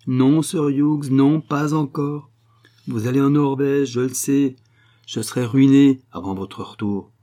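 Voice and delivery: pushy, urgent protest; insistent Madame Gordeloup. A narrator's reading.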